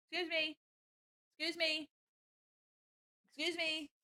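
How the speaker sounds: high, soft, sing-song plea; cutesy pet scolding. Real, not acted. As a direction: gently get a cat's attention. Addressing the cat on the chair.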